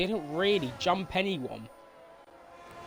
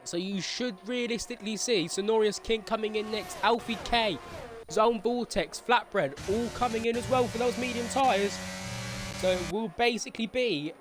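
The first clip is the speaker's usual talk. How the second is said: motorsport commentator; 3 semitones higher than usual. Acted. Live sim race play-by-play.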